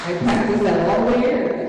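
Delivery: loud and pleased with herself, as if after a hard-won effort; proud loud aside. Real, not acted. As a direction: call it out proudly, playfully.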